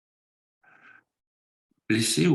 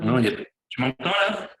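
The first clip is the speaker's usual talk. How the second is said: choppy connection; 4 semitones higher than usual. Real, not acted. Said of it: "c'est pas stable".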